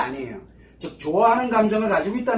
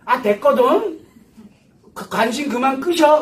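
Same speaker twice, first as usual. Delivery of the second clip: mock-annoyed daughter, louder and higher; irritated brush-off; 4 semitones higher, 5 dB louder, slower than usual. Daughter rebuffing mother's offer of food, irritated brush-off. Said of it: "신경질 내고 막 짜증 내고".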